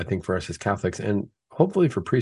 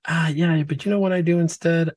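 raised, chirpy brush-off of the advice; cheeky patient; 9 semitones higher than usual. Retold or imitated. Patient brushing off his doctor, chirpy raised excuse. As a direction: dodge the doctor with a bright excuse.

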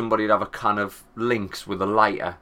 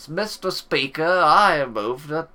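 much higher, slow, plummy mock politician; pompous MP mockery; 8 semitones higher, slower than usual. Mocking an MP demanding hard Brexit, slow pompous voice. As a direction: ham up a self-important MP addressing the Speaker.

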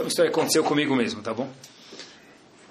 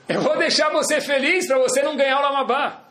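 laughing retort; 7 semitones higher than usual. Acted. Wife retorts in story.

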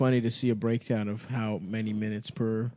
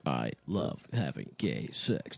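deep mock voice; 10 semitones lower, 9 dB quieter, slower than usual. Joke line in put-on low voice.

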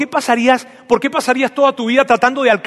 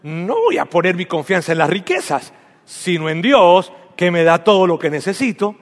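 obvious tone. Shown as a demonstration. Pastor demonstrates the declaration, sounding like it's obvious. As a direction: say it like anyone would know that. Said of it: "Algo como esto".

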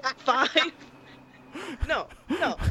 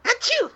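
sneezing; 13 semitones higher than usual. Real, not acted. Sneeze heard.

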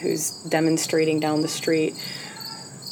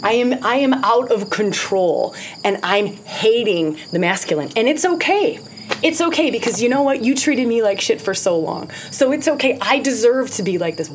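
mock self-justifying rage; 3 semitones higher than usual. Voicing raging woman justifying herself.

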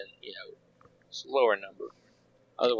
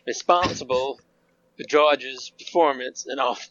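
put-on Southern accent. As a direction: read it like a Georgia football fan, Southern accent. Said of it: "read this with your most southern accent that you can muster".

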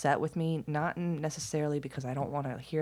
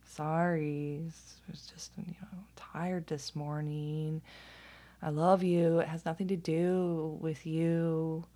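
gentle apology; 3 dB quieter than usual. Retold or imitated. Mom apologizing at her son's bedroom door, gentle apology. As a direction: ease into a careful, hushed apology.

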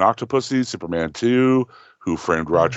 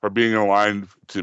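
ordinary delivery

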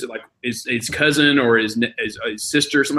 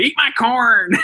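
put-on high little kid demand; be the toddler asking to be nibbled; little boy voice; 11 semitones higher, slower than usual. Toddler asking mom to eat his corn, high kid voice.

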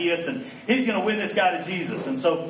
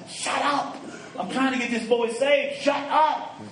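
high-pitched mock-annoyed "shut up"; comic, high-pitched telling-off; retold exasperated shushing; 10 semitones higher than usual. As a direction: act out shushing someone, voice jumping way up. Retold scolding of a weeping relative.

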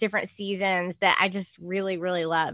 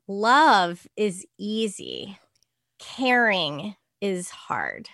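put-on slow solemn child quote; much slower than usual. Child's wise-sounding remark.

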